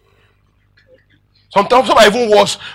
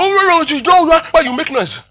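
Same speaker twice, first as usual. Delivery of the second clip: much higher-pitched mock outburst; mock shouting; 10 semitones higher than usual. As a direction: protest in a high, hammed-up yelp. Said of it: "I start shouting".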